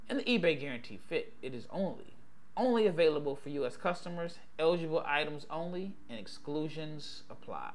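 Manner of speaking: quick legal fine print, x1.4 pace; fast disclaimer. Acted. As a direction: rattle off the small print fast.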